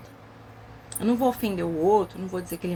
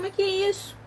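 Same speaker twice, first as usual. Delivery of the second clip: shocked question; 10 semitones higher than usual. Retold or imitated. Shocked at child slamming doors.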